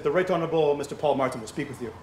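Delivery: lightly imitated French accent; formal announcement with a touch of French accent; tight French accent. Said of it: "had a very tight French accent".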